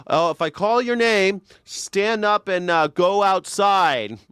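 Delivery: a hint of a calm tyrant calling names; Saddam impression. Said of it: "He like".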